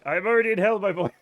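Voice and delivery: put-on lightly done French-accented mother. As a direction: toss it off as a mock French mom. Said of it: "Mom, French accent".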